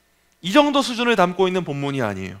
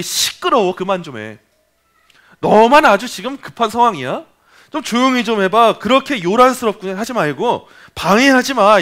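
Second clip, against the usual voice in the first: scolding crowd; 3 semitones higher than usual. Retold or imitated. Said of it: "무리들이 꾸짖었다고 해요".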